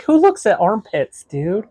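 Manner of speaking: mock disbelief. Teasing friend about armpits.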